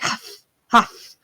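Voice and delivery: two light huffs; mock huffing. Imitating Odd leaning out of the scanner, light huffs. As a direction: puff it out lightly, worn out. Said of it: "Odd just kinda leans out and it's just like".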